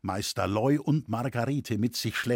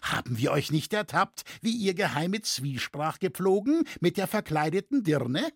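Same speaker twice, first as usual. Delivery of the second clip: mild shout, raised pitch; accusing, higher voice; shouted accusation; 6 semitones higher than usual. A narrator's reading. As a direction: challenge him to prove his innocence. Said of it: "schrie ein Dritter".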